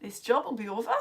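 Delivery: put-on lapsing into a Geordie accent; a loose, joking Geordie accent. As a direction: playfully slip into Geordie. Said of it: "I've gone all Geordie".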